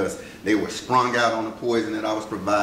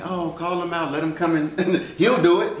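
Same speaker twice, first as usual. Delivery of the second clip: imitating people; 9 semitones higher, 4 dB louder than usual. Mimicking people taking advantage.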